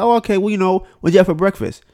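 upbeat mock flirt on the phone; acted phone flirt. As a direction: play the smooth caller chatting her up. Acting out flirty phone call.

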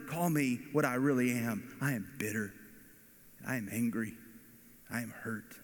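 a preacher voicing Naomi's bitter grief; Naomi's lament. Naomi telling the village women her bitterness, voiced lament.

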